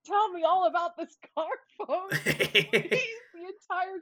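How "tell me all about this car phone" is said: put-on high, eager child's plea; eager kid. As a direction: beg for details like an excited kid. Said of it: "who was like".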